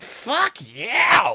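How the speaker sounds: put-on, very high-pitched, pissed-off angry outburst. Retelling what a dancer said after seeing the bills: imitating an angry outburst. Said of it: "got all pissed".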